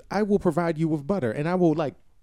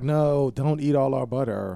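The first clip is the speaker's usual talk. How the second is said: passive aggressive. Retold or imitated. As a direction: say it politely but pointedly, slower. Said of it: "Even that was passive aggressive".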